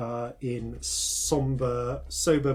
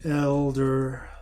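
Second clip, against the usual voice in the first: somber cleric; 2 semitones lower, slower than usual. Acted. Somber cleric introduces herself.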